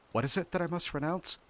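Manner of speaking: mild, kindly character voice. A narrator's reading. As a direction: ask kindly, humouring them. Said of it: "said kindly".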